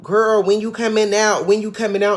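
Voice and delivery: mock castmate. Castmates pestering Contessa about her return, lightly mocking. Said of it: "everyone kept saying, like".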